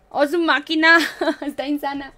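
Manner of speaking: loud amazed gasp of admiration; gasping with delight at a photo; amazed exclaim. Real, not acted. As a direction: blurt out in awe, then laugh.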